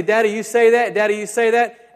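lightly voiced little boy asking; a hint of a toddler questioning his dad; child's voice. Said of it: "sometimes he'll say".

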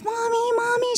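put-on high, eager little-girl voice calling out; toddler calling mommy. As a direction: imitate a two-year-old running to her mom. Toddler running to her mother.

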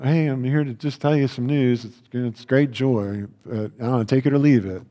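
bored, shrugging, half-hearted news; insincere angel. Shown as a demonstration. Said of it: "do it like".

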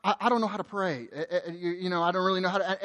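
soft, stammering confession; hesitant admission. Acted. Preacher imitates people admitting they can't pray, soft and hesitant. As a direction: mumble it haltingly, trailing off unsure. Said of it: "people will come and say".

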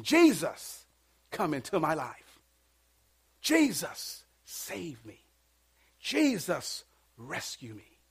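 heartfelt plea. Acted. Acted heartfelt prayer to Jesus.

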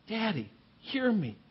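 soft, intimate plea to a father; warm and familiar. Acted. Jesus praying to his Father, softly and tenderly. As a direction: call him gently, like a child. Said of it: "He's warm and familiar".

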